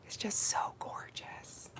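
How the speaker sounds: hushed reverent whisper. Real, not acted. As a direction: whisper so as not to scare it. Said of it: "I have to whisper".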